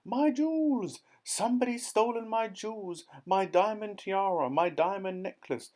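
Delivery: very high, loud, frantic lady's wail; shrieking Duchess. A narrator's reading. The Duchess screams to everyone that she was robbed. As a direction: shriek out the loss of the jewels. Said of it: "came flying out of the house screaming".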